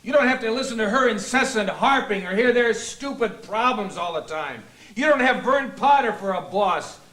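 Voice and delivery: exasperated, bitter tirade; shouting rant. Acted. Husband raging at Bill in group therapy, shouting rant. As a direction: rant at them in aggrieved outbursts. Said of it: "but you're shouting!".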